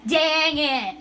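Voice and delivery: stretched, falling grumbled curse; drawn-out frustration. Real, not acted. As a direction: let it sag slowly after the miss.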